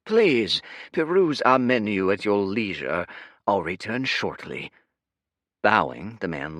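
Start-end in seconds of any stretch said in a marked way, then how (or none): 0.0-4.7 suddenly all flattery; fawning server. Acted.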